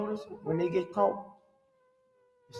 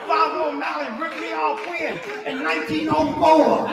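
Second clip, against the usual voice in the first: a lightly voiced old man, a little higher; 6 semitones higher, 6 dB louder than usual. Ninety-year-old man tells his wife what happened, lightly voiced old man. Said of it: "She said, "What's wrong?".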